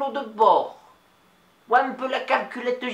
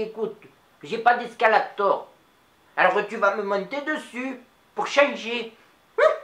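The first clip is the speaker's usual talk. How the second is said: lightly voiced old Nice lady, chatty; a chatty old Niçoise telling a story to the audience; Mado. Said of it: "c'était Mado". (voix légère de vieille Niçoise bavarde)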